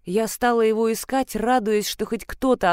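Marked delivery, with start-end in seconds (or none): none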